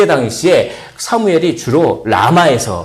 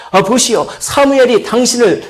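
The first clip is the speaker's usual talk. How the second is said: calling out; 9 semitones higher than usual. Acted. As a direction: call to the boy from far off. Messenger calling from afar.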